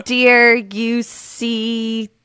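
halting, puzzled sounding out; word by word. Shown as a demonstration. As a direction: feel your way through, ending on a question. Guesser sounds out clue word by word.

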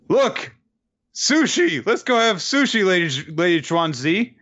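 very high, bouncy squeal; high excited demon-girl squeal; squeaky excited girls. Acted. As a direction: chirp it like a giddy little fiend. Demon girls spot sushi.

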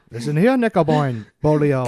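put-on lightly caricatured Native American accent from Minnesota; northern Minnesotan Native American accent. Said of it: "northern Minnesotan Native American accent".

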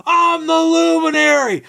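high, proud declaration; mock heroic proclamation; triumphant boast. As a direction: announce yourself like a hero. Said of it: "I'm like".

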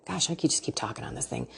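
soft whispered self-aside. Real, not acted. Host catching herself rambling, whispering. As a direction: let it slip out in a whisper.

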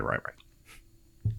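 breathy, slow giving in; whispered surrender. Retold or imitated. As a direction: sigh it out as you give up. Chris gives in.

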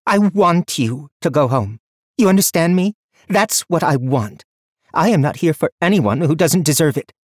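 high, loud furious tirade; wild rage. A narrator's reading. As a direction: rage at him, breathless. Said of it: "Her breathing was wild".

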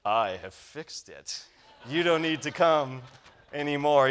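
lightly voiced proud hero; bold heroic voice. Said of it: "in a heroic voice".

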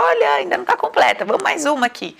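voice of life. Retold or imitated. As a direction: play life itself, mock-cheerful.

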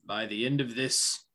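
menacing vow. Acted. Player voices his character threatening.

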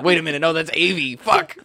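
dawning surprise, ends in a high cry; realizing. Retold or imitated. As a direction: realize it and blurt the curse. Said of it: "And then I was like".

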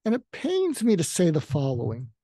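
a touch of feisty edge. Shown as a demonstration. Speaker says it feistily to an arrogant person. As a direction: deliver it with a bit of bite. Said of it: "I get feisty with people".

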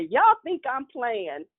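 slow, pointed warning; slow mock threat; lightly voiced grandmother warning; stern grandmother.

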